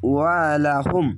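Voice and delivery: slow chanted ওয়ালাহুম; slow recitation. Shown as a demonstration. Teacher to students, slow chanted recitation. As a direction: stretch it gently. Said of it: "teacher demonstrates Quran reading".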